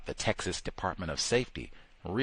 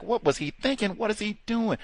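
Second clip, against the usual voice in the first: incredulous replay; 11 semitones higher than usual. Retold or imitated. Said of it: "they replayed it like".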